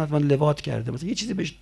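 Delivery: snide whisper. Retold or imitated. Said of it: "گفتم".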